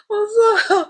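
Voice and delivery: real helpless laughing fit; laughing apology. Real, not acted. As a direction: try to apologise but keep cracking up. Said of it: "I got tears now".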